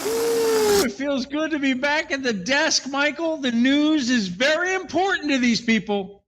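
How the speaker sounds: high, measured presidential voice; Obama impression. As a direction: do a light Obama-style delivery. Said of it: "an Obama kind of way saying it".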